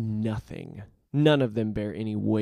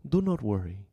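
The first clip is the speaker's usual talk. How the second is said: put-on soothing Spanish accent; reassuring. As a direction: gently reassure a beloved. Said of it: "he assures the music box".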